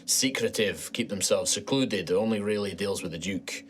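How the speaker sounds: lightly voiced Scottish knight; low-key Scottish dwarf musing; Scottish accent. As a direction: confide local lore in a Scottish lilt. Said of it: "Okay, it was Scottish".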